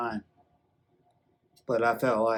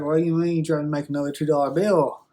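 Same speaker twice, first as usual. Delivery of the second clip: fast, louder, higher mock disbelief; disbelieving; 4 semitones higher, 5 dB louder, faster than usual. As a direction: fire it off in shocked disbelief. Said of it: "he's like".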